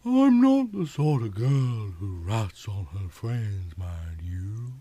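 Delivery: lazy Southern woman explaining. Acted. Yvonne's voice continues.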